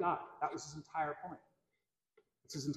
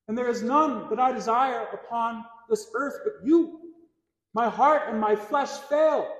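higher, impassioned psalm recital; preaching recitation; 5 semitones higher, 6 dB louder than usual. Acted. Preacher quoting Asaph's psalm to the congregation, raised declamation. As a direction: proclaim the psalm with raised pitch.

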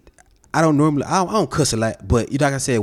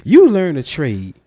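sarcastic; 3 semitones lower than usual. Real, not acted. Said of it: "He's being sarcastic right now".

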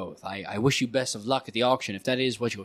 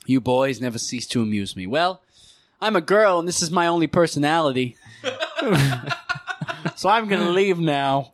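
high lady voice; 4 semitones higher than usual. Acted. NPC lady signs off.

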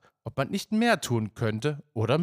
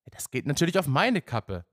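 a touch of irritation, pitched up; mildly annoyed, disappointed; 4 semitones higher than usual. Acted. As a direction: let some hurt annoyance show. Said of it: "etwas genervt und enttäuscht". (etwas genervt und enttäuscht)

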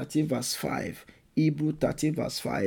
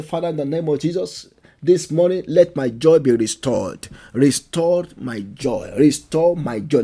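louder, earnest prayer calling out to God; fervent prayer; 4 dB louder than usual. Acted. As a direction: pray it aloud with fervour, pleading. Leads congregation in prayer.

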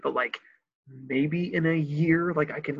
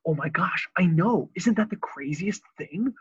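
imitating Josh; 5 semitones higher than usual. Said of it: "That's how he talks".

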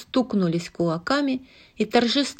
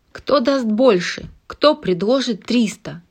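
auctioneer; 3 semitones higher, 3 dB louder than usual. Acted. Auctioneer calling bids.

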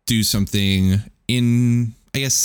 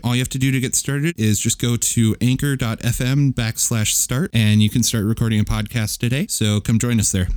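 ad read; 2 semitones higher than usual. Acted. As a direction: sell it like a host-read ad. Reads a sponsor ad.

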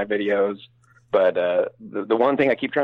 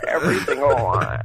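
mock Californian girl's creaky sentence ending; vocal fry. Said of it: "they end up down here".

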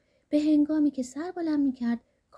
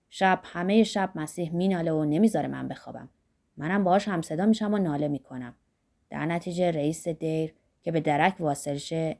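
lightly lowered voice of an agitated monk; monk's voice; 6 semitones lower than usual. Acted. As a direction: tell your grievance, worked up. Monk Zachariah tells his story. (راهب زکریا، با صدای کمی بم و برآشفته)

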